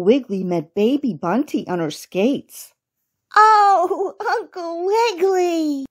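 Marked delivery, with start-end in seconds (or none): 3.4-5.9 put-on high, gleeful little-girl bunny voice; laughing rabbit girl. A narrator's reading. Little rabbit girl to Uncle Wiggily, high and amused. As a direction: squeal it fondly like a small rabbit girl. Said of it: "laughed the little rabbit girl".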